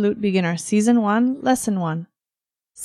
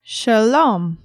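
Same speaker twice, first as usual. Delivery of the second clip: slow, over enunciating. Shown as a demonstration. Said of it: "one more time slowly".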